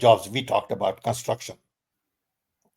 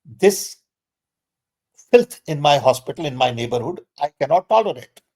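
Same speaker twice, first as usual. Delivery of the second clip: defiant raised voice standing up to staff; defiant retort; 3 semitones higher, 3 dB louder than usual. Retold or imitated. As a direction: push back hard, no tolerating it. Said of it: "you fight it saying".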